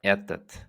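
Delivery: Этот, stress on the first syllable, closing in a clean т; Russian этот repeated. Shown as a demonstration. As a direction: model Этот for the class to repeat. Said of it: "we will say этот".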